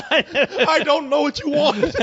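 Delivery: high, slow, fearful pleading to an unseen spirit; pleading with ghosts. Retold or imitated. Man pleading with the spirit who took his remote, high and slow. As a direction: beg the ghost for the remote back.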